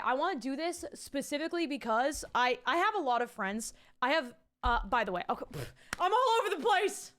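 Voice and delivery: rushed, scattered and jittery; caffeinated ramble, all over; too much caffeine. Real, not acted. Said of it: "The caffeine is kicking in".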